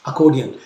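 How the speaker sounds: अकॉर्डियन said clearly, German way; अकॉर्डियन for learners; German word. Shown as a demonstration. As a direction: model अकॉर्डियन. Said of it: "अब इसमें आप पढ़ेंगे".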